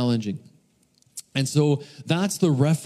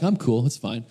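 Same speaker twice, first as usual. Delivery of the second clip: understated, casual cover for panic; mock nonchalance; playing it cool; 2 semitones lower than usual. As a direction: act unbothered on the outside. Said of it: "Inside, but outside, I'm like".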